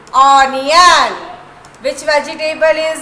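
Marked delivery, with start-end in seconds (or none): 0.1-1.1 louder, falling ONION to echo; sing song rote recitation. Shown as a demonstration. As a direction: model the word for the children. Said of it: "repeat after me".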